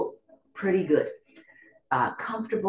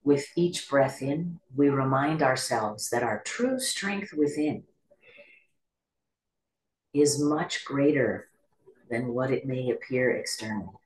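calm meditation guide with long pauses; guided meditation. Acted. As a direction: guide listeners gently into stillness, leaving space between phrases.

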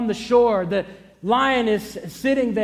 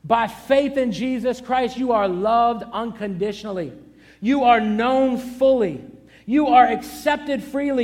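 preaching declarations; 3 semitones higher than usual. Acted. Declaring identity list.

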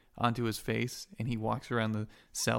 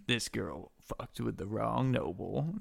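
villain growl; 4 dB quieter, slower than usual. Acted. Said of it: "And he goes".

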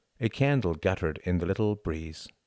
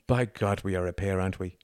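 sighing. Acted. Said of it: "she sighed".

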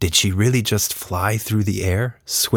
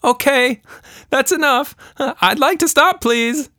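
higher, louder polite shout; girl's shout; 4 dB louder than usual. A narrator's reading. Tilda flying through the air asking to stop, polite shout. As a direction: call out to stop, still polite. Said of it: "she shouted".

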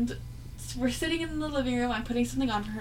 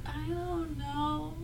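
nervous laugh; 6 semitones higher, 6 dB louder, much slower than usual. Retold or imitated. Scared daughter asks who passed.

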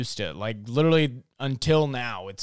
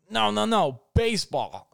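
frantic correction; 10 semitones higher than usual. Pretend. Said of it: "I'll be like".

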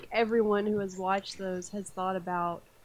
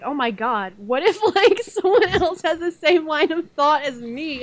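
panicked; 6 semitones higher, 8 dB louder than usual. Retold or imitated. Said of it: "And then I'm like".

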